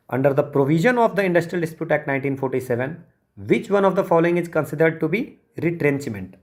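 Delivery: slow, careful reading of the exam question. Acted. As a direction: read it out word by word for students. Reads exam question aloud. (धीमी गति से प्रश्न पढ़ना)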